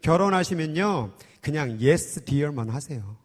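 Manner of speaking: low, quiet elder giving confidential advice; imitated church elder. Elder advising a newly married young evangelist, low imitated counsel. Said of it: "한 장로님이 저에게 와서".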